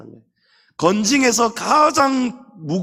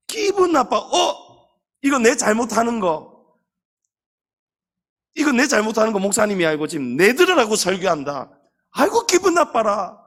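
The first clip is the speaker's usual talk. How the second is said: huffy grumble; 4 semitones higher than usual. Retold or imitated. Member offended by sermon.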